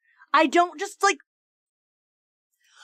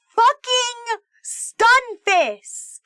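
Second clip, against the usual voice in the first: drawn out, higher, disgusted wail of the name; exasperated groan; 7 semitones higher, 4 dB louder, much slower than usual. Real, not acted. Streamer to chat, groaning at her birthday Pokemon with exasperated whine. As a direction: whine it out in real frustration.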